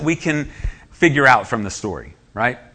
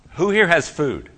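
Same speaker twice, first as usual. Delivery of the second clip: mildly raised call, higher in pitch; 4 semitones higher than usual. Acted. Preacher acts Andrew asking the crowd for food, calling out. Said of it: "when Andrew starts calling out".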